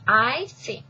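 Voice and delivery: broken off by a hiccup. Real, not acted. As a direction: hiccup cutting the phrase. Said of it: "damn hiccups".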